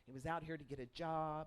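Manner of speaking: ordinary delivery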